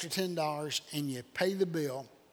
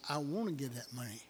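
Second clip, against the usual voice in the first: tearful insistence; 3 semitones lower, 7 dB quieter than usual. Retold or imitated. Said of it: "Big tears now stream down her face".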